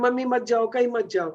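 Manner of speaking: mock-tearful kid, lightly voiced; pleading child. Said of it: "बच्चा रोने लग जाता है". (हल्के से नकल की गई रोती बच्चे की मिन्नत)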